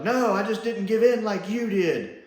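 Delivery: mock yell, pitched well up; Kingpin. Reviewer quoting the villain's retort, mock yell. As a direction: imitate an angry yell without full volume. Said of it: "Kingpin's yelling at him like".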